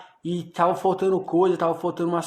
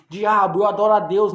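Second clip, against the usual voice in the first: mild, louder cry of defiance at the devil; retold shout; 5 dB louder than usual. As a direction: retell shouting it at the devil, only partly raised. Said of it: "eu gritei, meus irmãos, no ouvido do diabo".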